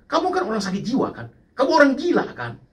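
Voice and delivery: high, pushed mock taunt; angry accusation. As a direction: fling the insult like the angry texter. Angry stranger quoted again.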